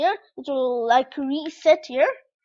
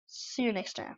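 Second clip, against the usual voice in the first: soft sign-off; 2 semitones lower, 10 dB quieter than usual. Shown as a demonstration. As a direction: say a settled, gentle farewell. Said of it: "the correct bye".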